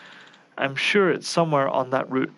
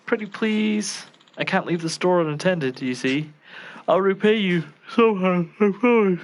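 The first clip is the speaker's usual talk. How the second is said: pleading; 4 semitones higher than usual. Acted. Chef begging Yagami for a favor.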